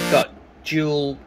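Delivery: ordinary talk, nothing marked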